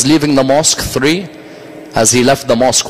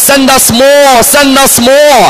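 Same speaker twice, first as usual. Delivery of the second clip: slow, high, loud plea for more troops; desperate demand; 11 semitones higher, 6 dB louder, slower than usual. Acted. Commander writing to Ibn Ziyad for reinforcements, slow desperate shout. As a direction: drag it out as a shouted call.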